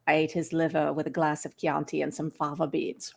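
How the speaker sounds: low, soft, unchanging pitch; low monotone Hopkins. Shown as a demonstration. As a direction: hold it low and level like a chilling villain. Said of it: "Very low monotone".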